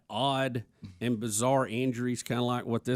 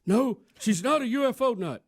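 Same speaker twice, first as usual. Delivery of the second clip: Bernie Sanders impression; 11 semitones higher than usual. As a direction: do a raspy old senator. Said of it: "And Bernie says".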